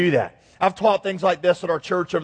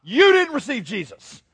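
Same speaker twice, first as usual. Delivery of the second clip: hammed-up gotcha shout from God, high and loud; mock scream; 6 semitones higher, 5 dB louder than usual. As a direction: pounce on them like a gloating God. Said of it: "at their deathbed and screams".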